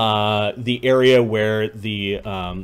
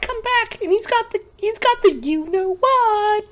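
squeaky character voice. Acted. Player's secretive high put-on voice.

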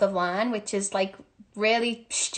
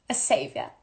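low, softer mock-solemn pronouncement; mock-grand; 8 semitones lower, 5 dB quieter than usual. Jokingly crowning themselves to the viewers, mock-grand low voice. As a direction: drop low for a pompous punchline.

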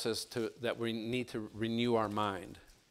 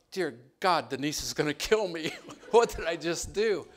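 retold panic; 6 semitones higher, 7 dB louder than usual. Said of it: "I'm like".

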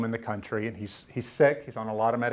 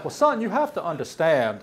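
higher, louder fatherly tone; lightly voiced old Southern father; mock patient father; father's voice; 6 semitones higher, 4 dB louder than usual. Father quoted, voice raised.

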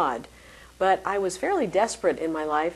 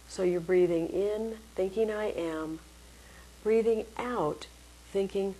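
guided meditation. Shown as a demonstration. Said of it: "So here's a very simple technique".

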